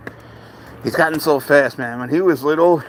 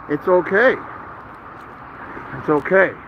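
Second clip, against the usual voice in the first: soothing; 4 semitones higher, slower than usual. Real, not acted. Comforting frightened cat in arms.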